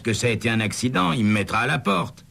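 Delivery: a lightly voiced fretful motel manager; anxious motel manager. A narrator's reading. Scene: Starnes frets to Douglas about his boss, lightly worried.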